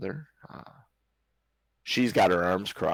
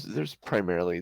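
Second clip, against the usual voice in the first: ordinary talk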